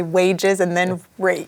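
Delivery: wages and rate in a Midwest accent; "wages" and "rate" sounding alike, Midwest accent. Shown as a demonstration. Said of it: "hard for my Midwest accent".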